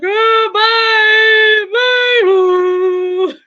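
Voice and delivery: high, loud sing-song goodbye, put on; sweet goodbye. Mom dropping her son off with a high, loud sing-song bye. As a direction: chirp bye at a son who won't let you walk him in. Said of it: "I'm like".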